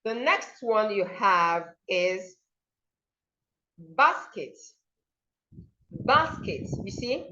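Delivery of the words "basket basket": "basket" with emphasis on BAS; stress first syllable. Shown as a demonstration. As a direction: hit BAS, keep ket short in "basket". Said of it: "please stress the first syllable".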